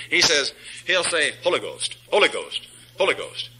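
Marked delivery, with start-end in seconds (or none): 1.4-3.5 "Holy Ghost" run together as one word, "HOLLA-ghost"; mocked mispronunciation. Preacher mimicking a heretic who can't say it, slurred "Holy Ghost". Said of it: "you can tell a heretic he can't say it".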